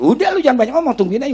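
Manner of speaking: mock-exasperated dismissal; retold impatient brush-off. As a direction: cut the questioner off. Brushes off a questioner in retelling.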